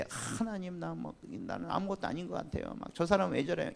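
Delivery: whiny complaining prayer. Retold or imitated. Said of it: "이런 기도가 안 나오고요".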